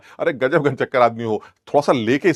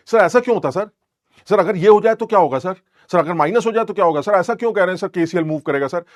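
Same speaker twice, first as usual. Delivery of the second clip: higher-pitched mock pestering student; mimicked student questions; 4 semitones higher than usual. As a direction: imitate a student firing naive questions. Mimicking students' endless naive questions. (सवाल पर सवाल पूछते छात्र की नकल)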